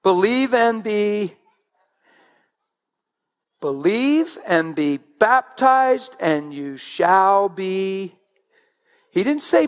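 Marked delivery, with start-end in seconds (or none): 0.0-1.4 slow with a falling close; a slow emphatic quote; slow, deliberate. Shown as a demonstration. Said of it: "he didn't separate the two". 3.6-8.2 baptized held long and leaned on; baptized as the key word; stress on baptized. Shown as a demonstration. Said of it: "he didn't separate the two".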